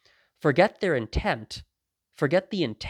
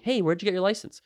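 light, higher-pitched casual query; calm, friendly question; 8 semitones higher than usual. Acted. The man as if he asked you calmly, friendly. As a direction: ask it innocently, with no anger at all. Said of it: "as if he asked you calmly".

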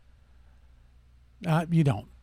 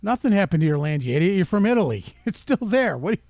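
louder, jeering scold; mocking retort; 3 semitones higher, 4 dB louder than usual. Host mocking the crying man from the ad, loud and jeering.

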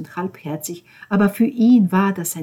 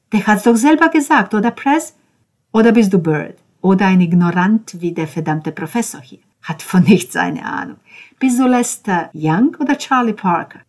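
loud, needling interrogation; raised, irritated voice; scornful challenge; 3 semitones higher, 5 dB louder than usual. Acted. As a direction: challenge him with mocking questions. Ben mockingly interrogates Cesco.

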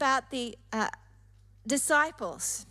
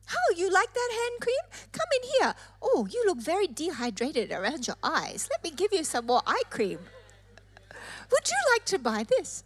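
high sales pitch; 3 semitones higher than usual. Acted. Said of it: "They go".

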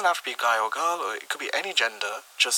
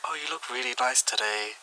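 subtle, softer seductive tone; sexy voice; 5 dB quieter than usual. Shown as a demonstration. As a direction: sweet-talk them, lightly and softly. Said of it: "notice the change in your voice tone".

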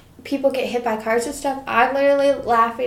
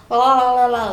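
mock tongue waggle; 3 dB louder, faster than usual. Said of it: "his tongue to just go".

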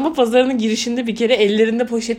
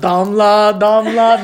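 calling out; 3 semitones lower, 4 dB louder, much slower than usual. Retold or imitated. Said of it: "Bana yukarıdan sesleniyor".

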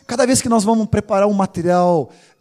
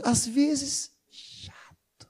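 "chato" barely breathed, softer and unvoiced; spoken softly; 4 semitones higher, 9 dB quieter, much slower than usual. Real, not acted. Pastor teasing his colleague, whispering "chato" aside. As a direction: drop to a whisper for the cheeky word. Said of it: "Eu vou falar baixinho".

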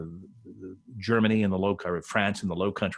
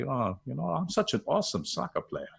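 imitating Ballack; 5 semitones higher, 5 dB quieter than usual. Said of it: "we got him to say".

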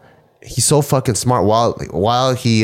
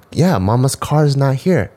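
gentle explaining; 5 semitones higher than usual. Retold or imitated. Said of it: "I'm like".

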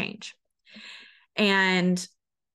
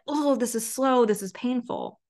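whiny client voice; 3 semitones higher than usual. Retold or imitated. Client complaining, voiced by coach.

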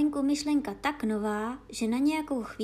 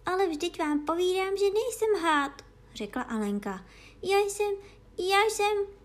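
insisting; 8 semitones higher, 3 dB louder than usual. A narrator's reading. Alice insisting, flustered.

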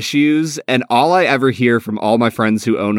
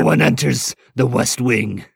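Beauty and the Beast quote. Retold or imitated. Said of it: "like in Beauty and the Beast".

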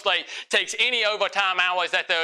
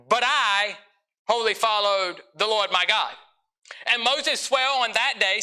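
scripture reading; 4 semitones higher than usual. Acted. Reads scripture aloud.

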